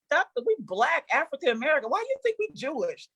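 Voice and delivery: mock-outraged at the doctor; mock incredulous to the doctor; indignant disbelief. Her indignant reply to doctor.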